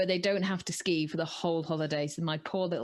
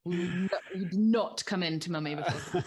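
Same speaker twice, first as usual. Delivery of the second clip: strict mum; 3 semitones lower than usual. Acted. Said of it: "I'm really strict".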